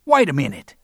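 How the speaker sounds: bully calling the man back. Acted. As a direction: call him back sharply. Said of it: "when he called again".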